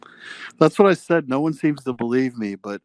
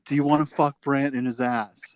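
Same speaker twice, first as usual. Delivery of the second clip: imitating Mike; 3 semitones higher than usual. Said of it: "Mike dipshit shtick where he's gonna be like".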